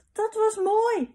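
high, loud, drawn-out delight; happy cry. A narrator's reading. Pip cheering papa's stunt, happy cry. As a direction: call it out slowly in a thrilled little-girl voice. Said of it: "riep Pip blij".

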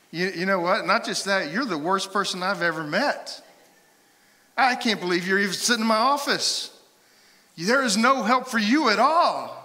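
scornful tirade building to a high shout; mock berating. Pastor to counseling client, mock-furious berating. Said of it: "and I'm like".

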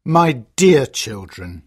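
a father breaking bad news gently; sadly. Father tells his children sadly, slow and low. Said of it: "he says sadly".

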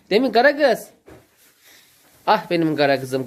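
high, loud sweet-talk to the cow; talking to a pet. Real, not acted. Coos at the black calf. (hayvana sevgiyle seslenen yüksek ses)

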